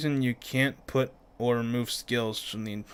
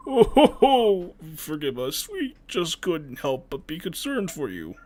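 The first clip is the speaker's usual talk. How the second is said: haughty noble voice; 5 semitones higher, 4 dB louder, slower than usual. Acted. Voicing haughty noble laugh.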